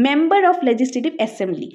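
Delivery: very slow, each word laid out; slow spelled-out reading. Shown as a demonstration. Teacher spelling out the full form slowly for students. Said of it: "এটার ফুল ফর্মটা কি".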